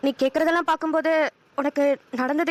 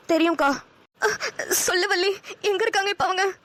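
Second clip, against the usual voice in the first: higher, distressed questions; upset, pleading; 4 semitones higher than usual. Acted. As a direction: demand to know where they are. Hears family was exiled. (வேதனையுடன் கேட்கும் குரல்)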